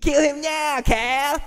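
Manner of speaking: high, commanding cartoon voice. Retelling a character ordering the others to kill Bjorn: Ivar as Cartman. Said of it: "turn Ivar into Cartman".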